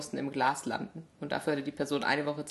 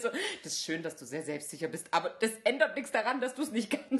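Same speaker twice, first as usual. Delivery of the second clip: mildly mock-exasperated, pitched up; exasperated trainer; 4 semitones higher than usual. Imitating the trainer at the contestant, mock exasperation. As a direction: lecture with hammed-up exasperation. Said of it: "Trainer ist fast ausgerastet".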